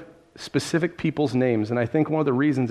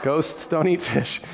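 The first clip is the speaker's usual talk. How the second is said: amused slow repeat; 3 semitones higher, slower than usual. Shown as a demonstration.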